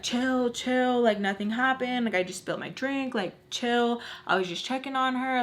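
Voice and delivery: retold panicky, defensive protest; freaked-out backpedaling. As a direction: imitate a guy nervously trying to calm everyone. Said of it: "super freaked out".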